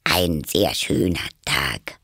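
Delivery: slow, hesitant, shy small talk; timid. Acted. Rabbit makes small talk beside Alice, timidly. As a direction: start haltingly, timidly. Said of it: "sagte eine schüchterne Stimme".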